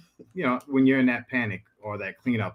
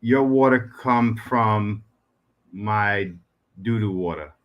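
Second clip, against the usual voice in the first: slow, spaced-out punchline; deliberately crude phrasing; slower than usual. Real, not acted. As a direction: drop it slowly, phrase by phrase. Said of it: "Why you gotta say it like that".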